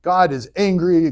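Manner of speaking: lightly voiced stern Moses; upset Moses. Moses scolds the people, mild mock scolding. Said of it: "Moses is like".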